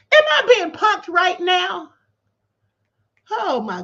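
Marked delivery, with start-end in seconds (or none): 0.1-1.9 slow disbelief. Real, not acted. Disbelief repeated.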